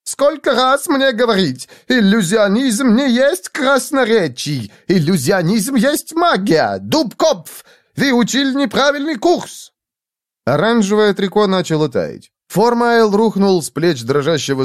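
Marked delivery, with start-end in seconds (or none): 0.0-9.7 put-on high-pitched, accented scolding; exasperated shouting. A narrator's reading. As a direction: scold frantically in a foreign accent. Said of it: "закричал лохматый".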